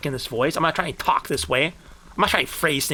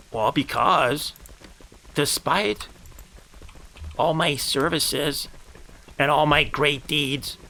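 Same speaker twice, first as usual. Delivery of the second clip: grandiose storytelling. Acted. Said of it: "talking in a certain kind of voice".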